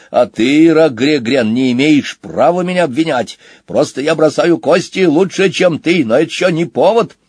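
high, protesting boar voice; indignant boar. Acted. Boar answers his accuser at cards, indignant.

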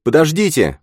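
high, urgent call; sudden high-pitched exclamation; exclaiming. A narrator's reading. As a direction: cry out to halt everyone. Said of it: "воскликнул Джейс".

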